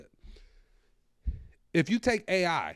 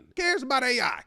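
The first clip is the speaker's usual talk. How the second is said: mock rant; 4 semitones higher, 4 dB louder than usual. Escalating mock rant, who cares.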